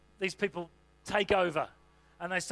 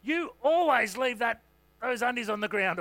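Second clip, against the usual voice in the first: accusing nag; 3 semitones higher, 3 dB louder than usual. Retold or imitated. A spouse nagging about undies on the floor, louder and accusing. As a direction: scold your partner over the mess. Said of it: "don't say always or never".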